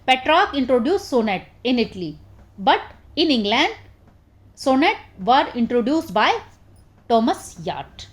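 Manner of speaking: slow, word-by-word dictation for notes. Acted. Teacher dictating a definition to her students, slow and even. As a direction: spell it out slowly so students can write.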